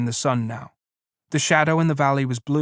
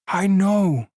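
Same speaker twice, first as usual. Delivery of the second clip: high, miserable plea; Lenny's miserable answer; 6 semitones higher than usual. A narrator's reading. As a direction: sad and small, close to tears. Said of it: "said Lenny miserably".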